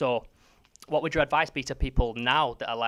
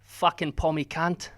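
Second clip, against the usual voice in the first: slow, higher try at Aussie; attempted Aussie accent; 4 semitones higher, slower than usual. Shown as a demonstration. Interviewer challenged to mimic the guest, drawn-out Aussie accent. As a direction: put on an Australian accent, drawn out. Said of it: "You do an Aussie accent then".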